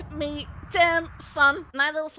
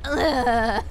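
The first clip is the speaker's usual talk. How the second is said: imitated groan; 6 semitones lower than usual. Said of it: "where I went".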